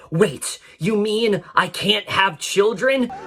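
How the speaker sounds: mildly hammed-up, slowed mock-dramatic delivery; lightly mock an overacted dramatic realisation; over-the-top movie line. Critic mocking the actress's line to camera, over-the-top. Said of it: "in a very over-the-top voice".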